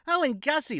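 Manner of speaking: high, squealing mock lady voice; party women mocking Gussie, high giddy voice; teasing party women. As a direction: taunt him in a giddy falsetto. Woman readying punchline.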